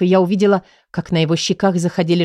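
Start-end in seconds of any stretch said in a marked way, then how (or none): none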